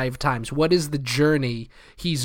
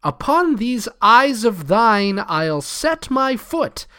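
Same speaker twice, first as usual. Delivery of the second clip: slow and much higher, a menacing read; villain line read; 8 semitones higher, slower than usual. Acted. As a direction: draw out Cornwall's threat slowly. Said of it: "the line".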